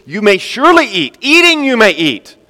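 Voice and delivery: enthusiastic. Acted. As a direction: savour the generous gift. God's words quoted with zeal.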